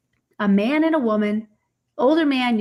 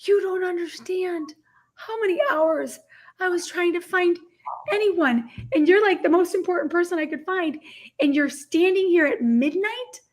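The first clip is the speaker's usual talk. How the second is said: overwhelmed gush; 7 semitones higher than usual. Retold or imitated. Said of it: "I'm like".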